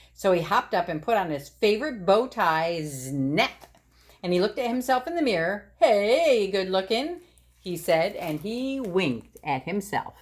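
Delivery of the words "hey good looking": cheeky self-compliment. Acted. Admiring himself in mirror.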